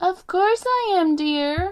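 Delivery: very high croaking voice, drawn out, slow. Narrator reading the reply from the big bed to the visiting girl, in a croaky voice. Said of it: "a croaky voice answered".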